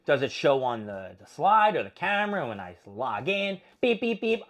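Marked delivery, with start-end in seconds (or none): 3.8-4.4 high, even mock beeps; imitated scanner beeps. Gym member imitating the log-in scanner, mock beeps. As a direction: mimic a check-in machine beeping.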